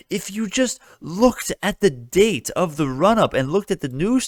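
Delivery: high, loud, slowed exasperated scolding; real exasperation. Real, not acted. Vlogger scolding the panel guest for skipping research, exasperated. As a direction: lecture them, fed up and shouting. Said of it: "I'm gonna freaking lose my shit".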